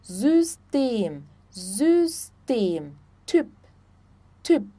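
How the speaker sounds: "System" and "Typ" with pouted Ü. Shown as a demonstration. Teacher explaining German Y, Ü in "System" and "Typ". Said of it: "Y sempre vai ter o som de Ü".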